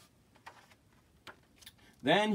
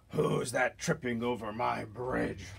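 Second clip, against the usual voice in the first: slow troll roar, lightly voiced. Troll challenging a small goat on the bridge, mild roar. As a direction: growl it out slowly like a troll guarding its bridge. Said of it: "roared the troll".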